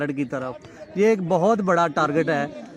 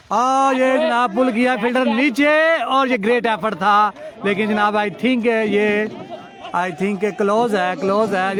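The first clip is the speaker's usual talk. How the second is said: raised, eager call of the big shot; excited commentary; 3 semitones higher than usual. Real, not acted. Commentator calling the pull shot, excited and raised. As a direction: lift the voice as the ball flies.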